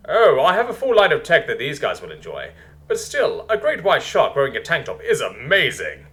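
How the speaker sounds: lightly voiced enthusiastic leader; Basilisk, welcoming leader.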